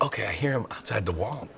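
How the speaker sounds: quiet, tense, focused; hushed gamer voice. Retold or imitated. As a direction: murmur it like you're hiding. Gamer listening for enemy.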